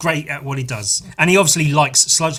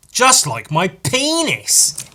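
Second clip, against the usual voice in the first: deadpan cheeky aside; 7 semitones higher, 7 dB louder, slower than usual. Real, not acted. Slow cheeky joke.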